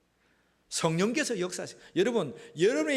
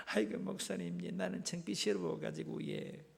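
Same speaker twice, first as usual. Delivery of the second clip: imitated embarrassed parishioner; mock sheepish churchgoer; 5 dB quieter than usual. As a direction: play up a bashful confession to the pastor. 부끄러워하는 교인 재차 흉내. (창피해하는 교인 흉내)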